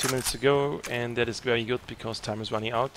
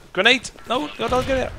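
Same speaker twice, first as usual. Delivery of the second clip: high urgent yell of grenade; grenade warning yell; 12 semitones higher, 5 dB louder than usual. Real, not acted. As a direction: shout the warning, panicked. Grenade incoming in game.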